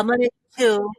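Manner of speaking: breaking up on the line; choppy phone signal; bad connection. Real, not acted. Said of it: "you're cutting, cutting out real bad".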